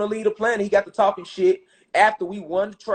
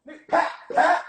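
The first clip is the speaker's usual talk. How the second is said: punch sounds; 8 semitones higher than usual. Retold or imitated. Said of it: "Nigga, get up off me".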